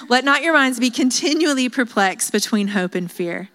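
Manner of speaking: half-committed British reading of a quotation; British accent. Acted. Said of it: "I read that in a British accent".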